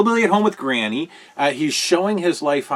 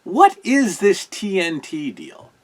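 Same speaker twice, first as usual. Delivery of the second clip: high, drawn-out incredulous whine; baffled disbelief; 8 semitones higher, much slower than usual. Retold or imitated. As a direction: ask it like you can't believe what you're seeing. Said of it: "I'm watching this going".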